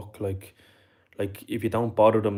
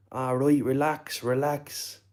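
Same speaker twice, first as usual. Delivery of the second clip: higher-pitched mock plea to calm down; imitated placating fella; 5 semitones higher, slower than usual. Smoker answering the man with a hammer, imitated placating voice. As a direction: lightly act out someone backing off.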